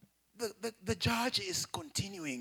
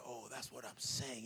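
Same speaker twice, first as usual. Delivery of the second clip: much lower, softer, slow lazy mock voice; mocking the boyfriend; 10 semitones lower, 10 dB quieter than usual. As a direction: sneer it like the smug man with gold teeth. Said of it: "this man came and said".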